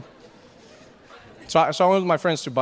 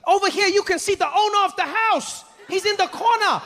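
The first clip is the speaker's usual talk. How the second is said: much higher, chirpy guide patter; overly happy tour guide; 12 semitones higher than usual. Retold or imitated. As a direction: sell it like an eager tour guide. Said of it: "he's like".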